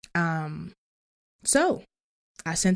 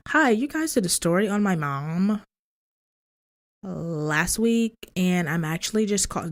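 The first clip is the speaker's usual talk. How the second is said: telephone voice. Retold or imitated. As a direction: put on the telephone voice. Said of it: "this is my telephone voice".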